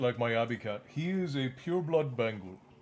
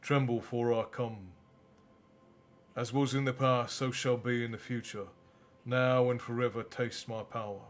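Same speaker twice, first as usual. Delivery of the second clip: story narration. A narrator's reading. Reading the novel aloud.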